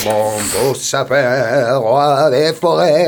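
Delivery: put-on slow, quavering old man singing; a lightly quavering old voice. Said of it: "j'ai voulu faire chevrotter ma voix chevrotante".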